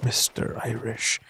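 lightly voiced spooky intonation; mock low drawn-out name. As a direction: murmur the name with mock gravity. Mocking the name.

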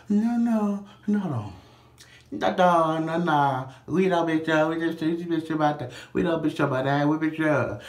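high, loud pleading clerk voice; protesting clerk. Retold or imitated. Shop clerk insisting to the customer, loud and high.

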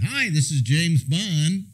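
put-on slow radio greeting in a fading British accent; half-hearted British accent, drawn out; slipping British accent. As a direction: James Bond with the British accent wearing off. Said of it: "slowly losing my accent".

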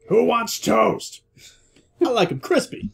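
high, drawn-out call; mock game-character yell. Player quoting Gears to a friend, playful high call. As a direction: sing out the game quote high and slow. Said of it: "Marcus yells out".

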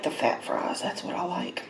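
hushed whisper of delight. Real, not acted. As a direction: whisper it to yourself. Whispered while eating.

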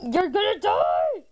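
drawn-out playful threat, rising at the end; mock death threat. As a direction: stretch out a hammed-up threat. Mock threat to game opponent.

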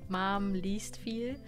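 ordinary talk, nothing marked

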